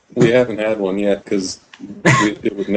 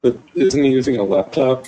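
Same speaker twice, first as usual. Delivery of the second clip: glitchy robotic connection; 3 semitones higher than usual. Real, not acted. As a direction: sounds like a robot over bad internet. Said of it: "You sound robotic".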